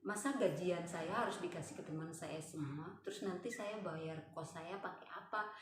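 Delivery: soft fretting to oneself; subdued inner monologue; worried self-talk. Retold or imitated. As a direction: grumble your worries quietly. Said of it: "Saya ngomong gitu".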